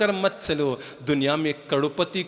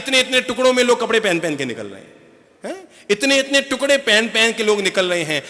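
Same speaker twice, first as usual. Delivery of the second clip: rising outrage; 6 semitones higher, 4 dB louder than usual. Real, not acted. Preacher mocking skimpy fashion.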